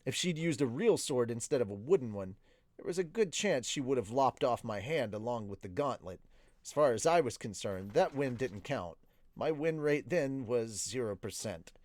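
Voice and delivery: measured audiobook-style narration; story narration. A narrator's reading. Streamer reading a novel to viewers, story narration. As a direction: read the story aloud in the narrator's voice.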